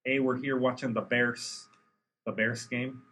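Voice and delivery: slow, lightly put-on Chicago accent. Podcaster imitating a Bears fan, light Chicago accent. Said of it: "you don't like the Chicago accent?".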